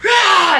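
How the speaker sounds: loud, high growl of frustration; bratty growling roar. Retold or imitated. Beast turned down for dinner, bratty roar. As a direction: freak out with a tantrum roar. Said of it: "growls and, like, freaks out".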